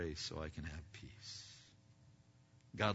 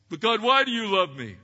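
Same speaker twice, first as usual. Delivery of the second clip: a slightly raised, quick, pleading question to God; a believer asking God why, a little louder; puzzled believer; 12 semitones higher, 16 dB louder, faster than usual. Acted. Preacher voicing a believer asking God why, mildly pleading.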